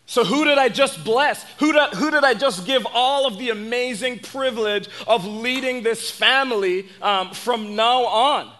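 mildly acted alarm at being tricked; a dismayed father demanding answers, lightly voiced; incredulous father. Isaac learns he was tricked.

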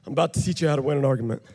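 panting through the words after pulling the rope; out of breath. Real, not acted. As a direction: gasp it out fast, still catching your breath. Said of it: "pardon me, I'm out of breath".

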